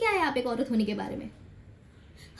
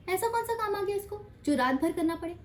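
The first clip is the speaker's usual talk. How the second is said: higher-pitched disapproving question; mock suspicion; 5 semitones higher, 3 dB quieter than usual. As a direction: imitate a family questioning her disapprovingly. Acting out family's suspicion of women. (शक भरे ताने की नकल, ऊँचे सुर में)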